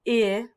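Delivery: P-I-P spelled letter by letter; spelling it out. Shown as a demonstration. Teacher spelling the word again for the kids. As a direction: say each letter of P-I-P separately. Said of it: "That has I, I in the middle".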